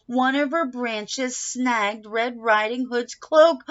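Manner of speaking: rising alarm. A narrator's reading. Stage mishap climax.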